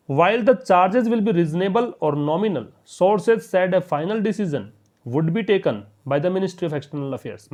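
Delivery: slow, careful read of an English news line; slow reading aloud. Shown as a demonstration. Teacher reading the news sentence to students, slow and deliberate. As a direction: read each word out slowly for students.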